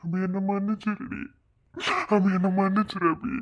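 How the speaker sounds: crying as he begs forgiveness, pitch climbing; tearful pleading. Acted. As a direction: plead through sobs, pausing for breath. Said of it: "அழாத, சத்யன்". (அழுதுகொண்டே மன்னிப்பு கேட்கும் குரல்)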